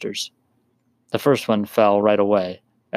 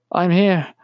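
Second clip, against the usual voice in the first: high loud call; calling back; 9 semitones higher, 4 dB louder than usual. A narrator's reading. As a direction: shout back across the noise. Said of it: "his wife called back".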